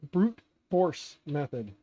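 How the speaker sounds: drawn out, relishing each word; slow savoring repeat. Shown as a demonstration. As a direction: slowly savor "Brute force method".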